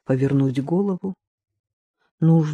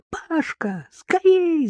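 leaps high on скорей; panicked shout; 13 semitones higher, much slower than usual. A narrator's reading. Marina calling her brother while mother collapses, shouting. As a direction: scream for your brother. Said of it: "закричала Марина".

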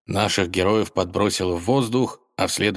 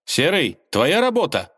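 stern; 8 semitones higher, 3 dB louder than usual. Acted. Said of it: "строго спросил Иван".

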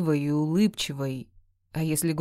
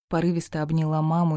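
plain reading voice

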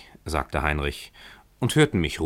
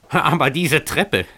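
grinding out the words; 6 semitones higher, slower than usual. Acted. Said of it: "knirschte Emmerich hinauf".

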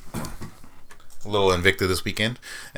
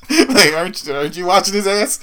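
laughing; 11 semitones higher, 4 dB louder than usual. Retold or imitated. Retold retort, laughing.

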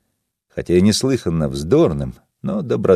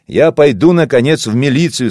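put-on loud, raised shout to drown out the old man; shouting over him; 6 semitones higher, 5 dB louder than usual. Narrator shouts over Vaso's row to threaten police. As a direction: force the words over the uproar. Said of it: "стараясь перекричать Васо".

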